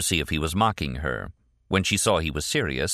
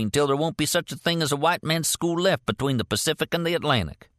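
heated rant, pitched high; rant, building steam; 9 semitones higher than usual. A narrator's reading. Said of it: "he was starting to rant now".

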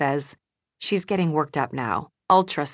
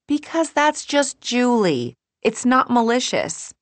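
whisper yelling; 9 semitones higher, 5 dB louder, slower than usual. A narrator's reading. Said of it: "We're whisper yelling".

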